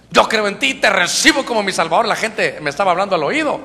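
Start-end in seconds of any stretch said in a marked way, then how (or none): 0.1-2.1 mildly raised voice, imitating an earnest plea; retold tearful prayer. Preacher retelling his conversion prayer at the altar, fervent. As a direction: declare it to God, a touch raised. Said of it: "yo lloraba y decía".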